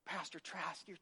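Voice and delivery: mock sweet teacher. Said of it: "she'd be like".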